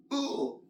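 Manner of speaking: high mock grunt of effort; a high-pitched "ugh" thrown with a punch; movie punch grunt. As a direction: imitate an exaggerated movie-fight grunt. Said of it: "see how they punch in the movies".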